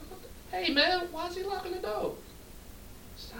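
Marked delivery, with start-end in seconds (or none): 0.1-2.2 higher pitched, startled question; alarmed surprise. Retold or imitated. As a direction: sound suddenly wary and thrown. Confused at locked door.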